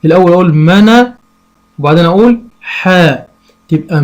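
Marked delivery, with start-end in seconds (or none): 0.5-1.1 منا said as its own syllable. Shown as a demonstration. Parent teaching a child to read, sounding out. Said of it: "أنطقها أقول إيه". 2.6-3.2 حا said as its own syllable. Shown as a demonstration. Parent teaching a child to read, sounding out. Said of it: "أنطقها أقول إيه".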